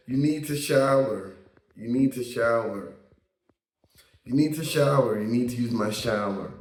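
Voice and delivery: lightly imitated American accent. Imitating the man saying you need to shower, light American accent. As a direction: mimic an American telling someone to wash. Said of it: "'cause he had this American accent".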